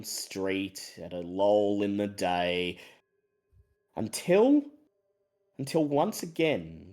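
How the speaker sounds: low, measured storyteller voice; game master narration. A narrator's reading. Game master sets an eerie swamp scene for players, storytelling voice. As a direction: draw out the eerie description, easing down at line ends.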